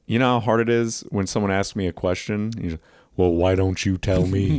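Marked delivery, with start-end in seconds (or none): 3.2-4.6 lightly voiced wrestler-politician; Jesse Ventura. Comic answering a question as his impression, lightly voiced. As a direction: throw the question back in a put-on voice. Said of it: "the whole Jesse Ventura thing".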